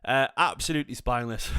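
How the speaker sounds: breathless after running upstairs; panting between words; out of breath. Real, not acted. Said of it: "I'm out of breath 'cause I've just legged up my stairs".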